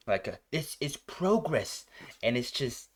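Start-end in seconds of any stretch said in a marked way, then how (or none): 0.5-1.8 lightly voiced cold villain, slow and flat-toned; a hint of a cold machine-like boss, slowly; cold emotionless. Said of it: "cold, logical kind of just dialect".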